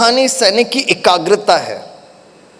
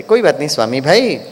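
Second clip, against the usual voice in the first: loving reassurance; 4 semitones lower than usual. Retold or imitated. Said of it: "दीदी बड़े प्यार से कहते".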